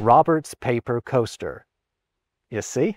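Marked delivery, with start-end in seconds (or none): 0.0-1.6 American-style rhotic accent, every R pronounced. Non-rhotic speaker demonstrating a rhotic accent: rhotic accent, every r pronounced. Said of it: "In rhotic accents, though, like a lot of Americans have, the R's are not silent".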